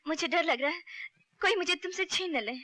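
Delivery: high, anxious pleading; fearful confession. Acted. Gita afraid someone will take her from Raka, fearful. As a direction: let worry lift the voice.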